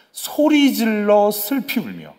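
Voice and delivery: "소리 질러"를 높고 길게 끌기; 강조해 되읽기. Shown as a demonstration. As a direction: draw out "소리 질러" high and slow, then drop on "슬피 울며". 성경 구절을 강조해 되읽음. ("소리 질러"를 길게 늘여 강조)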